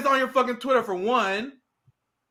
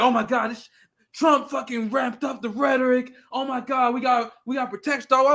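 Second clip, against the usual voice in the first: mocking panic; 2 semitones higher than usual. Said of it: "Liberals like".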